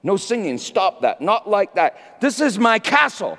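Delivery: furious king shouting at his sad soul; proud king yelling. Pretend. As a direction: rant like a proud king ordering silence. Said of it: "like a proud king ... saying".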